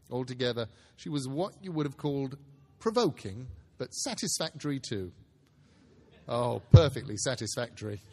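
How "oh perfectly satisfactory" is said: amused laugh through the words; laughing aside. A narrator's reading. Narrator laughing to the listener about the niece. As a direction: chuckle it to the listener.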